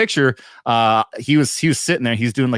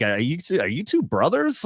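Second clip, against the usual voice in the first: high mock question; 4 semitones higher than usual. Retold fan question at convention.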